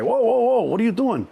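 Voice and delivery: high alarmed whoa, whoa; shocked intake guard. Retold or imitated.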